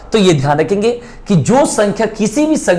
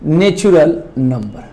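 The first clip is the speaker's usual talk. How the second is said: नेचुरल नंबर said slowly and deliberately for writing; slow dictation; slower than usual. Shown as a demonstration. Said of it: "अब बात करते हैं". (नेचुरल नंबर धीरे-धीरे लिखवाते हुए)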